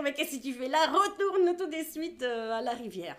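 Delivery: high, sharp scolding of a daughter; mother scolding her daughter to go back. Acted. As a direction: send her straight back to the river.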